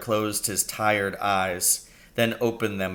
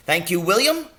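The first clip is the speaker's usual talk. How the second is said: higher doctor voice, solemn thanks; gravely; 10 semitones higher, 6 dB louder than usual. A narrator's reading. Doctor gravely thanking the father for his praise. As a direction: accept the compliment with mock dignity. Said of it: "Doc Spencer said gravely".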